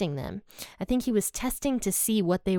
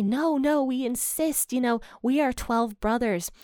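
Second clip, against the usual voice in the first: higher, urgent "no, no" of protesting brothers; insistent protest; 5 semitones higher than usual. Retold or imitated. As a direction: press the denial, voice pitched up.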